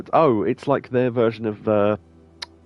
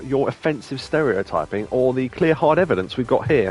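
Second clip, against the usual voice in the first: mock indignant; 3 semitones higher than usual.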